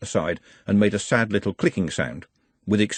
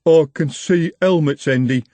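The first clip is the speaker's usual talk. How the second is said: urgently; 6 semitones higher, 5 dB louder than usual. Acted. Jumbo warning Andy that the watch is coming, urgent. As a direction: warn the boss, pressing. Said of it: "said Jumbo urgently".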